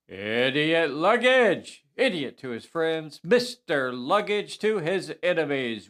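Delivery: hammed-up announcer roll call, key names stretched out; show announcer. Host introducing the cast to the audience, showy announcer delivery. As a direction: announce each name like a showman, drawing out the last.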